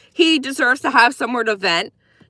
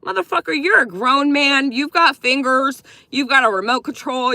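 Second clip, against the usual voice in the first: retold rant; 3 semitones higher than usual. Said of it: "I'm like".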